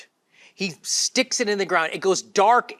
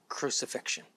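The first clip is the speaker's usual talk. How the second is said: ordinary talk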